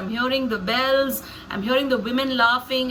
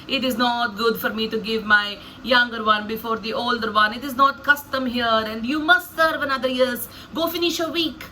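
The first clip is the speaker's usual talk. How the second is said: casual, unbothered character voice; cool cucumber. Acted. Laban answering an angered Jacob, cool and casual. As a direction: brush it off without a trace of remorse. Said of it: "I portray Laban as a very cool cucumber".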